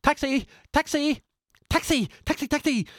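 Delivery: high, loud hails flung down the street; shouting for a taxi. Acted. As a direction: yell for a cab at the top of your lungs. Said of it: "shouting at the top of his lungs".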